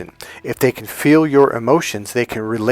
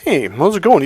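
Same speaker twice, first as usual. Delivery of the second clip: put-on higher, nasal little-boy voice; nasally little boy; 6 semitones higher, 3 dB louder than usual. Coach mocking a client's little-boy greeting, nasal. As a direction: put on a nasal, boyish hello. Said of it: "your voice sounds nasally".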